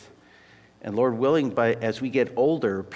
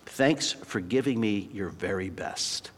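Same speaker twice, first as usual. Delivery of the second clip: slow, softer, heartfelt coach's thanks; tender thanks; 5 semitones lower, 5 dB quieter, slower than usual. Retold or imitated. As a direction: gently thank him for his effort. Coach thanks cut player tenderly.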